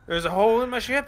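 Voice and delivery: surprised captain. Acted. Captain learns of hole.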